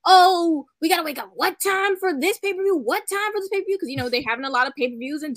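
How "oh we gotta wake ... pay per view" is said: higher-pitched mock complaint; mock complaining. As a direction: imitate whining fans fussing over times. Mimicking complainers on Twitter.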